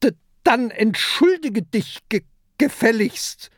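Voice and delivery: high, loud stammered order; pirate ordering the kraken; stern command. A narrator's reading. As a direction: demand an apology. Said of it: "ruft Peter".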